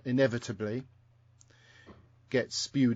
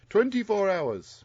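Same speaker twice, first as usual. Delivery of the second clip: attempted Welsh accent; 8 semitones higher, slower than usual. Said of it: "can't re-, do the accent".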